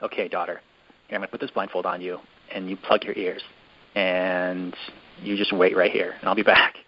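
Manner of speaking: low-key imitation of a dad instructing his daughter; retold fatherly instructions. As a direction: play the father lightly, voice dropped. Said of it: "Tom Cruise is eventually like".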